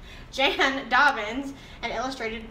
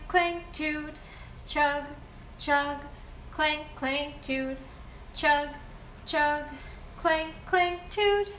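put-on reading to a toddler; slower than usual. Reads picture book aloud.

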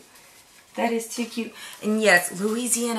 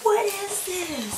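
excited shriek; 12 semitones higher, 4 dB louder, much slower than usual. Real, not acted. Opening a surprise item.

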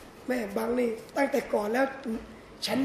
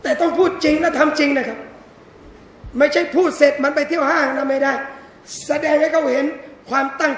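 forceful preaching; 7 dB louder than usual. Real, not acted. Preacher stresses sincerity to men.

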